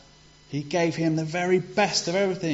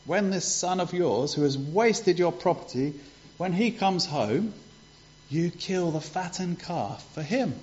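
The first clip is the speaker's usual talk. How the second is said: resentful; 5 semitones higher than usual. Retold or imitated. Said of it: "he was really angry".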